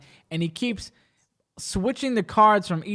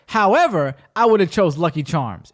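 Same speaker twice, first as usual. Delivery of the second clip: mock magician; 4 dB louder than usual. Imitates magician brushing past the answer.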